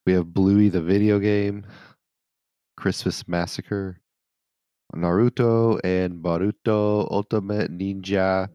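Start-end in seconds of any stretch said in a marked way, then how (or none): 5.0-8.5 put-on playful Spanish accent on the titles. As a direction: read the names with a Spanish accent. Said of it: "you just said that in, like, a Spanish accent".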